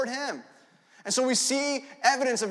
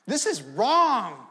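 put-on kid protesting; 4 dB louder, much slower than usual. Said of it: "but I'm like".

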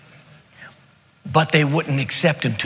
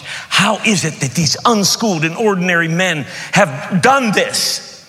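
raised, incredulous questioning, building higher; astonished; 4 semitones higher, slower than usual. Acted. Astonished rulers wondering about unschooled, ordinary men, incredulous. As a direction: ask it in open astonishment. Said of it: "And they were astonished".

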